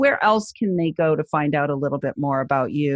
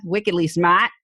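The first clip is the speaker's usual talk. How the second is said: wickedly smart, New England r-less smart; New England accent. Shown as a demonstration. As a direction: say it like a Bostonian. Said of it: "I'm using our New England accent there".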